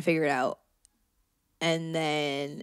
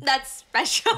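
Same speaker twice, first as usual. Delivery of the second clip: mocking echo; 8 semitones higher, slower than usual. Mockingly echoes the other host, laughing.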